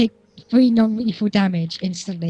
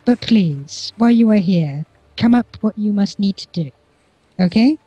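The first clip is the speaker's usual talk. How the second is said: regal queen. Acted. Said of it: "the Queen's basically looking at all of you and going".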